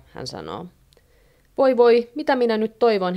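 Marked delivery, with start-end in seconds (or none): 1.6-3.2 high, fretful musing. A narrator's reading. Wife ponders what to wish for, high musing voice. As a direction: wonder aloud with a raised, narrated voice. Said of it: "Heinoska tuumailee".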